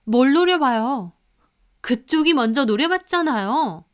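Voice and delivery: mock angry daughter-in-law retort. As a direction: snap back at her, annoyed. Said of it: "저는 화가 나서 말했죠".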